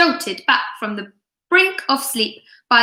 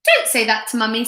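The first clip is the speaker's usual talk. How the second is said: indignant; faster than usual. Acted. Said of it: "said Laura indignantly".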